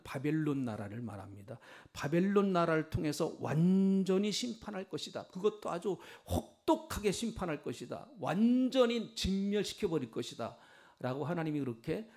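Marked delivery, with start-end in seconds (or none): 1.9-10.6 higher, forceful pronouncement, lightly acted; emphatic divine decree. Preacher voicing God's answer to Habakkuk, an emphatic decree. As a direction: proclaim judgment with punched emphasis. Preacher voices God announcing judgment.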